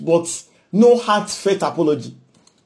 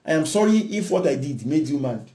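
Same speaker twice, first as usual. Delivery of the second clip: grudging if apology; 4 dB quieter than usual. Retold or imitated. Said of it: "They say we should apologize".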